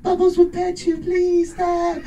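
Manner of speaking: a hushed, high, creepy plea; pop-star impression. Comic playing a famous pop singer denying it, high and hushed. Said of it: "he's like".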